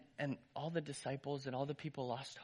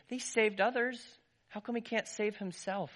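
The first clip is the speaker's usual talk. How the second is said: loud, higher jeering; mocking; 7 semitones higher, 5 dB louder than usual. Crowd mocking the crucified man, loud jeering. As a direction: jeer at him from the crowd. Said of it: "are mocking him".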